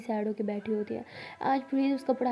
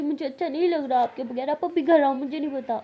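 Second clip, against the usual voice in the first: whiny plea; 4 semitones higher, 6 dB louder than usual. Acted. Crying sister begs elder to return.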